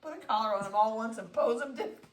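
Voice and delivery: high, laughing chatter; cracking up mid-sentence. Real, not acted. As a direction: talk on through real giggles. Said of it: "I can't believe I'm laughing".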